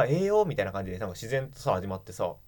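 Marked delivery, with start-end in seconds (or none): 0.0-0.4 relaxed Kansai "ええよ", higher; easy Kansai reply. Retold or imitated. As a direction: answer like a native of Kansai. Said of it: "谷野も関西人だからさ".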